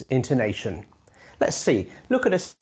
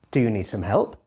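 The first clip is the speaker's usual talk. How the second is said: lower, merely polite offer, rise on help; polite rhetorical question; 5 semitones lower than usual. Shown as a demonstration. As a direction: say it only to be polite. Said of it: "a rhetorical question ... you want to be polite".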